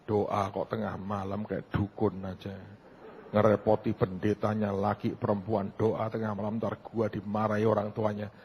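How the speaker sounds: low, soft grumble to oneself; inner grumbling. Retold or imitated. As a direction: grumble under your breath, slowing at first. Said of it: "Masih ngomel loh".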